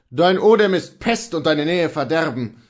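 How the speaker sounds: exclamation. A narrator's reading. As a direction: recoil and cry out.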